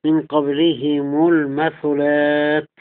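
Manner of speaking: قبلهم المثلات linked as qablihimu-l-mathulaat; slow recital, "hi" then "mu" in قبلهم; kasra haa, damma meem. Shown as a demonstration. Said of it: "بكسر الهاء وضم الميم".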